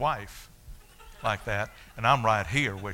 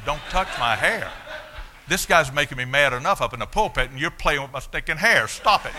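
mock angry outburst; 3 semitones higher, 5 dB louder than usual. Retold angry outburst at deacon.

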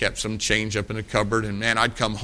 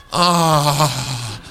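class groan of disappointment. Retold or imitated. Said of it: "the whole class would go".

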